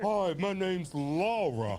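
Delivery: slow, lightly put-on feminine voice; mock feminine voice. Mimicking a man sounding feminine, slow mock voice. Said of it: "they think that sounds like feminine".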